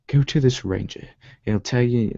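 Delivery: put-on rough stab at an English accent; amused, lightly faked English accent. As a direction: badly imitate an English accent. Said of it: "with an English accent".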